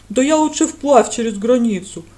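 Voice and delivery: loud indignant outburst. Acted. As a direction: bristle at the very idea, loudly. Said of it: "возмутился обережник".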